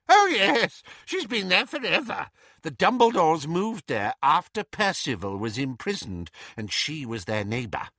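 put-on high, gossipy old woman voice; fussy old aunt. A narrator's reading. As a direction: play a nosy old aunt.

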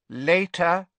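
high, icy, cold man's voice. A narrator's reading. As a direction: speak cold as icy wind. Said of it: "strangely high-pitched and cold as a sudden blast of icy wind".

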